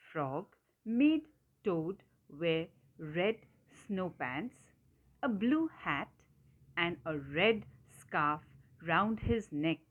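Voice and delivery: slow, measured storybook narration; word-by-word reading for young listeners; story reading. A narrator's reading. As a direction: read it out carefully to children. Reads story to children.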